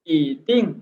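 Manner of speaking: ई rising into a falling टिंग; second-tone ई. Shown as a demonstration. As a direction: lift ई upward, then drop टिंग. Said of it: "तो second में तब्दील हो जाएगी tone". (ईटिंग में ई दूसरी टोन में, नीचे से ऊपर)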